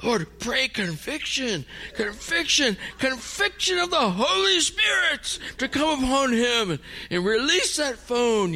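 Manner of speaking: imitated fervent prayer. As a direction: mimic a daughter crying out to heaven, pitch climbing. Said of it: "My, my daughter's praying".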